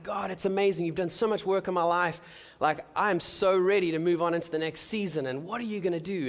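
bubbling over, ready to go; eager excitement. Retold or imitated.

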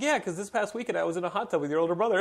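lightly voiced girl, laughing through it; girl's reveal. Girl admitting the hot tub with his brother, light voice. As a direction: deliver the punchline as her. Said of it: "She's like".

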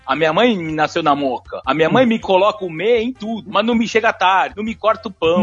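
lightly imitated Italian-tinged Mooca accent; São Paulo Mooca accent. Teacher mimicking Paulistanos from Mooca, Italian-influenced São Paulo accent. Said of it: "aqui em São Paulo me fala tudo assim".

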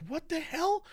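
retold what the hell. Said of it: "So I was like".

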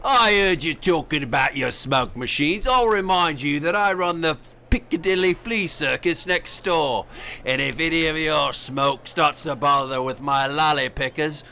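Bert-style Cockney showman; Cockney flea circus man; Cockney accent. Acted. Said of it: "is that Bert from Mary Poppins?".

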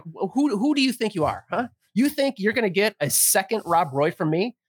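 retold telling-off, pretending to be pissed; mock indignation. Bartender refuses customer a second drink, mock indignation. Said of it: "thinking that I was really pissed".

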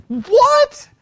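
high, loud mock disbelief; loud, high-pitched indignant yelp; incredulous outburst. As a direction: blurt it out in exaggerated shock. Acted disbelief at hidden books.

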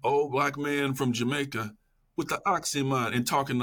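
light, high-pitched Jamaican lilt; Jamaican accent. Retold or imitated. Reader reliving a book's island voice, imitated Jamaican accent. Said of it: "I could hear this Jamaican accent".

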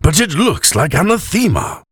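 high, swooping tipsy whine; drunken whine. A narrator's reading. Drunk elf protesting the pronunciation, whining. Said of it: "he whined".

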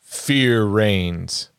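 measured movie tagline read; a hint of trailer narrator; attempted trailer voice. Shown as a demonstration. Host reading poster taglines aloud, attempted trailer voice. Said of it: "I'll try and do it in the trailer voice".

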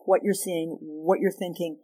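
a gentle plea to understand, slowing down. Shown as a demonstration. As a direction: invite the partner to explain, calmly.

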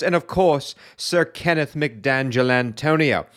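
high, booming English gentleman host; hearty booming country squire. Acted. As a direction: play a jolly old country squire hosting the show. Host's English squire persona.

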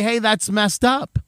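slow, calm, even "Hey, that's messed up"; just say it slowly, no heat; mild slow rebuke; slow simple reproach. Shown as a demonstration. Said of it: "You simply say".

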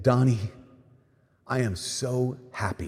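soft, slow, tender retold voice; maternal voice. Heavenly mother speaking to Donnie in his soul, maternal. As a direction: speak it gently, fading away very softly. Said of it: "the most feminine voice, the most maternal voice".

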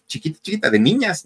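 put-on little-girl castrato voice; tiny girlish voice. Shown as a demonstration. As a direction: squeeze the voice up small and girlish. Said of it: "se les quedara la voz así".

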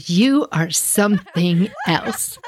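slow, amused, laughing through the words; chuckling mom, lightly voiced; laughing fondly.

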